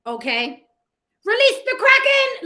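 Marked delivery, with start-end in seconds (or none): 1.2-2.5 mock epic command.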